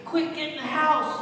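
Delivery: retold hurried command; urgent order. Grandfather to grandson as storm hits, urgent order.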